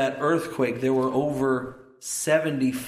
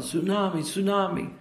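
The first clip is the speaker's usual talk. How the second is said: mild repeated mock yell, pitched up; imitated yelling; 5 semitones higher than usual. Preacher retelling the man's repeated warning, mild mock yelling. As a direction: imitate repeated warning cries without full volume. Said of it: "he just kept yelling".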